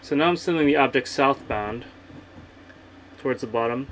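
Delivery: muffled, thumb covering the mic; thumb over the mic. Real, not acted. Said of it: "I'm covering the mic with my thumb".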